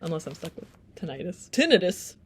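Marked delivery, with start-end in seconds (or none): 1.5-2.1 mock exclamation. Punchline on the word.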